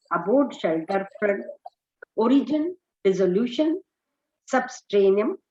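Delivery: slow, spaced-out translation, word by word; very slow reading. Acted. Teacher slowly reading the English translation to students. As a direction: read it out slowly so students can follow.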